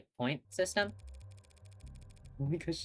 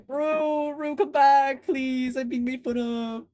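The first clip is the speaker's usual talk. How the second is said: loud pleading; 10 semitones higher, 9 dB louder, much slower than usual. Real, not acted. Begging co-player to come back.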